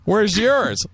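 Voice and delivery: high, loud put-on girly voice; mock girly superhero. Host mocking a lady Thor, high girly voice. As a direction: play a squeaky comic-book heroine. Acts out female Thor exchange.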